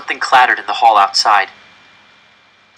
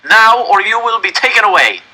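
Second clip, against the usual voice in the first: put-on loud, high German-accented threat; threatening German officer; 10 semitones higher, 6 dB louder than usual. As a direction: threaten them coldly. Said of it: "the officer said".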